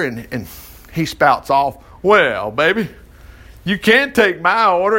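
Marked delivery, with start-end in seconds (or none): 2.0-5.0 mock a man smarting off at the counter; smart-aleck come-on. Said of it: "he was just smarting off some sexist remark".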